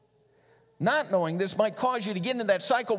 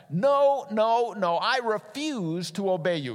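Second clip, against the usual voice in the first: defiant refusal; 5 semitones higher, 4 dB louder, slower than usual. Acted. Jonah defying God, acted.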